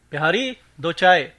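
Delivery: loud call for tea. Acted. Chemist calls loudly to tea seller. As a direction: call across to the stall. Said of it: "आवाज लगाई".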